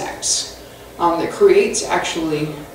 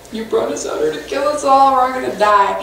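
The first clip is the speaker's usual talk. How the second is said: mock whining; 3 semitones higher than usual. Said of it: "they start complaining".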